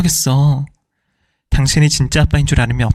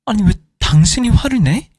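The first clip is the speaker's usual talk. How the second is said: higher, sharp indignant retort; indignant outburst; 8 semitones higher than usual. Acted. Wife snapping at her husband, higher and indignant. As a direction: fire back in disbelief.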